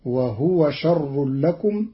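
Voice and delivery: "وهو خير لكم" slowly, wahwa with sukun; slow, ha unvowelled. Shown as a demonstration. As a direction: drag "وهو" with silent h. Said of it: "بإسكان الهاء تخفيفا". ("وهْو خير لكم" ببطء)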